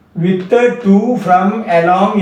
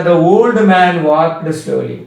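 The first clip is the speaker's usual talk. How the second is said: slow dictation; much slower than usual. Shown as a demonstration. Teacher dictates example sentence.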